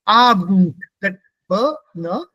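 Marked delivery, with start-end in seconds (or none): 0.1-0.8 Abend with B running straight into N; loud AH-bn for Abend; E disappears. Shown as a demonstration. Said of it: "It disappears".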